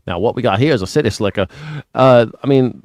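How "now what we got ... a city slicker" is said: put-on country Southern accent; Southern local. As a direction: imitate a Southern local sizing up an outsider. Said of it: "they called you city slicker".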